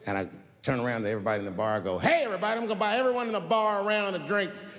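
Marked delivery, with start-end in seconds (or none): 2.0-4.7 put-on drunk announcement. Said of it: "I was fucked up".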